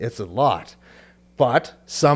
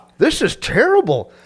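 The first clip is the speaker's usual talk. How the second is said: mock disgusted, high-pitched, loud whining. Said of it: "you're like".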